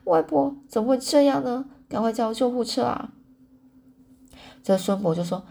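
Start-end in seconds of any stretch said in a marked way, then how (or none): 0.0-3.1 crying out. A narrator's reading. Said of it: "艾美忍不住哭了".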